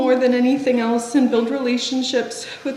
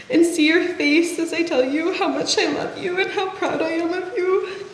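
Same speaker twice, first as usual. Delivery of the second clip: voice breaking; 4 semitones higher than usual. Real, not acted. Eulogy for his younger brother.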